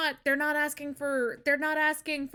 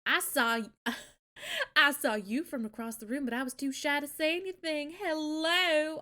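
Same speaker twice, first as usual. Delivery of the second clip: Southern belle. Acted. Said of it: "the speaker is a Southern belle now".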